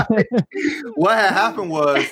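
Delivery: laughing through a mock excuse. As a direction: play the guilty storyteller with a laugh. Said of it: "about to hear some excuses".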